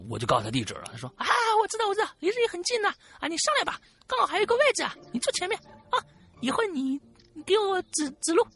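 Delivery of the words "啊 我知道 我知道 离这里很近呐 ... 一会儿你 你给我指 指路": high, quick, wheedling driver voice; imitating a slick tout, pitched high and fast; coaxing driver. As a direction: sweet-talk her into the car like a tout. Retelling the black-cab driver's pitch.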